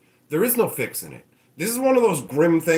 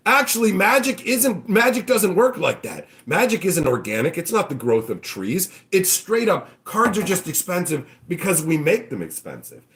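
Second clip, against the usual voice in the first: smug executives; 2 semitones higher than usual. Retold or imitated. Wizards executives brushing off the old way, smug. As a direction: play a know-it-all executive.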